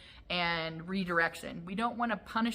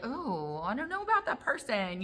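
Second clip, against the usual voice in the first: softly voiced doubtful dog, rising higher; wary dog voice; 4 semitones higher, 3 dB quieter than usual. Dog unsure about big visitor, wary voice. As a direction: draw back with an uncertain, softer oh. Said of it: "your dog might be like".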